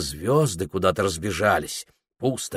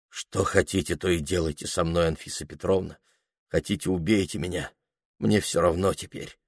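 hollow gloomy voice; 4 dB quieter than usual. Acted. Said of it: "глухим загробным голосом".

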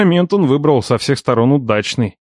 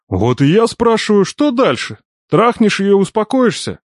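uncle voice; 9 semitones higher than usual. A narrator's reading.

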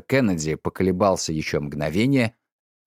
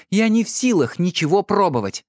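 curt retort; 9 semitones higher than usual. A narrator's reading. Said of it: "отрезала она".

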